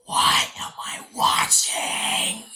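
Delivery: loud, slow, cracking cry; exasperated shout. Retold or imitated. Reviewer recalls the ending, loud slow exasperated cry. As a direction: throw up your hands at the screen. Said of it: "I was just like".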